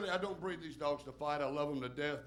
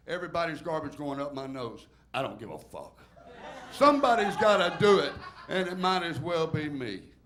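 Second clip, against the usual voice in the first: rhythmic poem read to a bar crowd, swelling louder; comic poem recital; 5 dB louder than usual. Acted. Comic reciting his garbage man poem to a bar crowd, rhythmic and punchy. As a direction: perform the verses with a beat.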